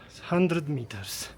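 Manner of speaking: breathless after the climb; out of breath, panting lightly; gasping between phrases. Real, not acted. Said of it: "I'm out of breath".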